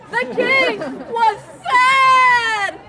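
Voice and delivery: shout. Acted. Loud dramatic narration.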